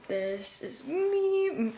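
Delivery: slow, loud, drawn out; proud showoff. Real, not acted. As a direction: present yourself grandly. Showing off outfit to camera.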